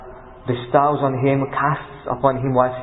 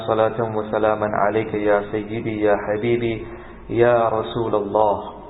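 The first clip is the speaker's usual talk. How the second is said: measured, even-toned recitation of opening praises and verses; formal Arabic invocation; 2 semitones lower, much faster than usual. Acted. Preacher opening a talk with praises and verses, formal Arabic recitation. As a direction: recite fast and evenly on a near-monotone.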